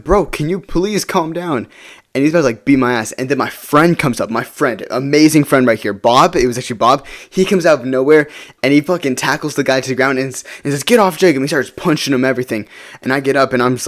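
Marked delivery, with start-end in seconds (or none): 0.0-1.7 slow, higher-pitched mock pleading; exasperated plea. Pleading with attacker after punch. 10.8-11.4 higher, louder imitation of a friend intervening; mock yell. Friend tackles attacker, yelling.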